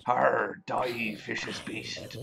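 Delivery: loud, hammed-up pirate attack; mock-fierce pirate growling at a beast; pirate battle cry. Playing pirate attacks a cave monster.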